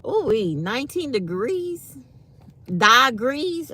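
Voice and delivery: high, loud disbelief; can't believe the cold. Real, not acted.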